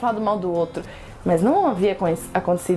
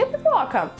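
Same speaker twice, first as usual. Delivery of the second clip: friend's retort; 5 semitones higher than usual. Acted. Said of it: "falou assim".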